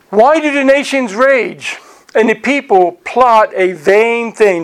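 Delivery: measured scripture reading, slightly drawn out; slow reading. Real, not acted. Teacher reading the psalm for the church, slow reading. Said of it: "try to read it slowly".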